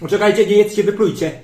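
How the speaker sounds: loud, high, sudden cry to stop eating; alarmed shout. Acted. Aunt shouting at the family at Christmas Eve dinner, loud alarmed cry. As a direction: yell at everyone to spit it out. Forgot the first star, panic.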